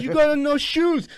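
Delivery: high, slow scolding voice; old Italian lady. Retold or imitated. Old lady spots his bare feet, high mock scolding. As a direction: imitate an old woman calling him out. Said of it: "this old Italian lady goes".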